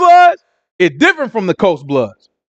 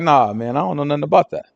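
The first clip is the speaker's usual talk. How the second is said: tag; 5 semitones lower, 4 dB quieter than usual. Retold or imitated. Peter's first denial, played casual.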